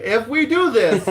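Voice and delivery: high, loud and drawn out; hammed-up bold announcement; loud mock declaration. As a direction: declare it like a grand vow. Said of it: "And I'm like".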